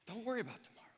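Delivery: Don't worry about tomorrow, whispered; whispered repeat. Shown as a demonstration. Preacher repeating Jesus's words, whispered. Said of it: "it's why Jesus said".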